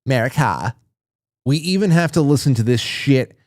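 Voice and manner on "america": imitating a robot's creaky fry; robot vocal fry. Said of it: "They even gave the robot vocal fry".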